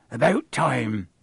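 lightly voiced rustic giant; groundskeeper. Groundskeeper greeting late arrivals, gruff. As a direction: grumble in a broad country accent.

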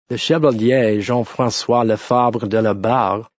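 understated deadpan delivery; poker face. A narrator's reading. Lawyer telling the travellers the verdict, deadpan. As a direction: say the name with no hint of feeling. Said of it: "he said with a poker face".

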